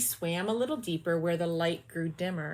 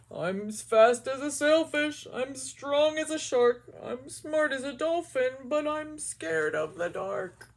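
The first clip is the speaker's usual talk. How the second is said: eager hero fish voice; boastful fish; 6 semitones higher than usual. Acted. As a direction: puff up, then deflate. Mister Fish boasts again.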